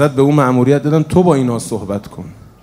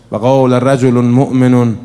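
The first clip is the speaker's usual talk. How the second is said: slow, louder chanted verse; Quranic recitation; 3 dB louder, slower than usual. Acted. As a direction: intone the verse solemnly. (تلاوت آهسته و آهنگین)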